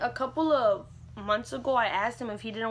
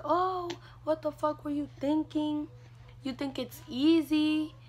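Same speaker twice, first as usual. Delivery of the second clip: mild mock telling-off, pitched up; retold angry scolding; 5 semitones higher than usual. Dad scolding his pregnant daughter, retold mildly angry. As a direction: imitate a dad going off, without shouting. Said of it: "he went off on me".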